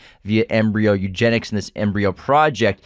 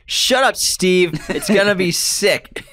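excited; 8 semitones higher, slower than usual. Pretend. Excited reply to Steve.

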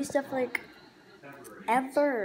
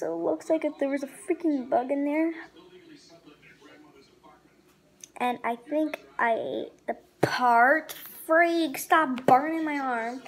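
talking with food in mouth; speaking between bites; chewing while talking. Real, not acted. Seen 0: Bites croissant before; holds it near mouth, chewing while talking.

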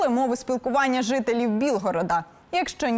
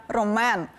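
Ромен stressed on the final syllable, -мЕн; stress on last syllable. Shown as a demonstration. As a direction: hit the end of Ромен. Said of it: "з наголосом на останній склад". (наголос на останньому складі: Ромен)

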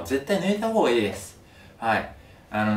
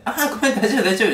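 high, loud half-laughing sorry; half-laughing apology; 12 semitones higher, 7 dB louder than usual. Retold or imitated. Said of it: "みたいな感じで半笑い言ってて".

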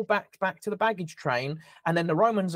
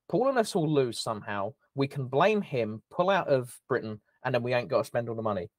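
put-on Essex accent; 3 semitones lower than usual. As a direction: lay on a thick Essex accent. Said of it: "I say in the most Essex accent ever".

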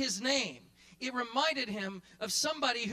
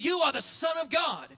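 ringing declaration as Simon; shouted confession; 4 semitones higher than usual. Acted. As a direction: call it out in awe. Simon's confession, acted out loud.

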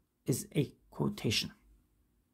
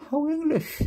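put-on a posh English accent, pitched much higher; 12 semitones higher than usual. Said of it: "I put that accent out wrong".

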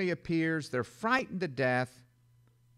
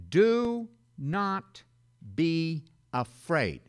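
angel's command; 3 dB louder, much slower than usual. Acted. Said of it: "The angel said to them".

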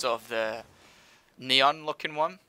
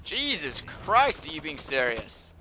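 stunned disbelief; 3 semitones higher, slower than usual. Real, not acted. Team left him alone.

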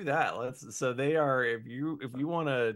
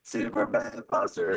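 robot voice; 4 semitones lower, 3 dB louder than usual. Real, not acted. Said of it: "You sound like a robot, brother".

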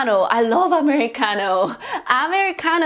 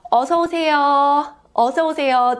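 staff greeting; 3 semitones higher, much faster than usual. Acted. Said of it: "they will do this".

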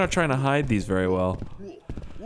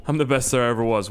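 mock boast; faster than usual. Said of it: "The best wouldn't ask that".

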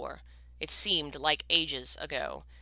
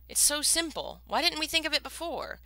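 excited realization; 10 semitones higher than usual. A narrator's reading. Sudden realization.

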